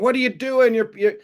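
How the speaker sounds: hammed-up panicked sputter; mock freakout. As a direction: imitate a freaking-out critic. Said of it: "Elon and a lot of people were freaking out, going".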